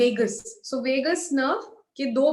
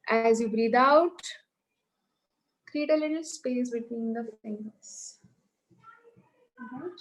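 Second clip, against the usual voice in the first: guided breathing instruction. Acted. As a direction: lead them gently through each breath. Guides yoga breathing exercise.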